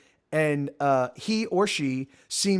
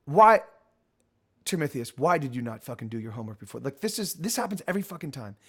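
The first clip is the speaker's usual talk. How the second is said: exasperated scolding; faster than usual. Acted. Torona scolds Termithius.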